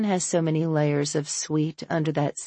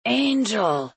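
crying out; 6 semitones higher than usual. Acted. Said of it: "A J cries".

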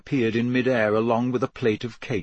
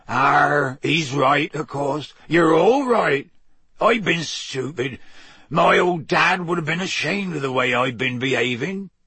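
big rough West Country giant; lightly voiced gruff Hagrid; 3 semitones higher than usual.

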